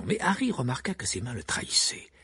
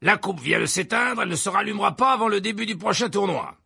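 higher, brisk official brushing it off; jovial Verpet; 9 semitones higher, 5 dB louder than usual. A narrator's reading. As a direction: Verpet dismissing the demand, upbeat. Verpet explique la coupe. (voix haute et enjouée de Verpet)

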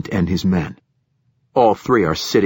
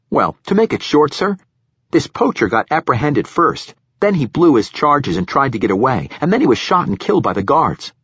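higher-pitched junior officer answering up to a superior; eager young lieutenant; 7 semitones higher, 4 dB louder than usual. Acted. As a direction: voice an earnest young lieutenant reporting in.

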